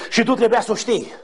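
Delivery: usual speaking voice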